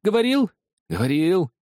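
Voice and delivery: high, loud, agitated outburst; agitated cry. A narrator's reading. Crazed old man recounting, shouting. (взволнованный высокий выкрик)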